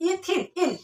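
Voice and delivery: ইথিন, then its ending ইন singled out as "een"; pronunciation demo. Shown as a demonstration. Teacher showing the "in" inside the alkene name, pronunciation demo. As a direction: sound out ইথিন, then repeat just the closing ইন. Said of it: "উচ্চারণের ভিতরে কিন্তু ইনটা আসতেছে".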